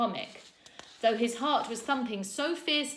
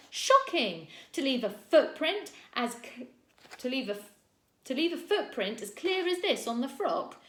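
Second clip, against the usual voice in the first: higher and louder, stumbling in outrage; outraged scolding; 6 semitones higher, 5 dB louder than usual. A narrator's reading. Teacher scolding Rowan over the footprint, spluttering outrage. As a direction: splutter with indignation.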